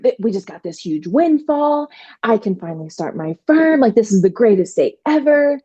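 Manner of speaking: bubbling over with joy at the news; over the moon. Retold or imitated. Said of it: "I'm over the moon excited".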